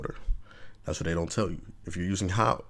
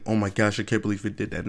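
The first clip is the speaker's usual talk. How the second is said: mock shock; faster than usual. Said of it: "don't come crying back saying".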